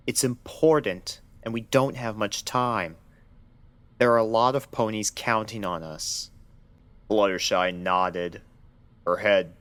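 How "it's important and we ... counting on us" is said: softened voice. Acted. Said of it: "His voice softened".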